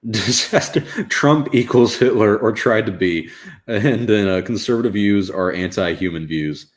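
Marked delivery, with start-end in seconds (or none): 0.1-3.3 mocking read. Reading her quote mockingly.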